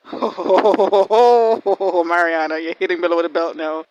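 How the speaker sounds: loud, stretched out name; mock scolding. Real, not acted. Scolding the character.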